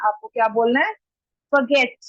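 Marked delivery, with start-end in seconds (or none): 1.5-2.0 "फॉरगेट" with the O barely sounded; unemphasized O. Shown as a demonstration. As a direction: say "फॉरगेट" as fuh-GET, no stress on the O. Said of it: "ओ पे बिल्कुल भी emphasise नहीं करना". ("फॉरगेट" में ओ पर बिल्कुल ज़ोर नहीं)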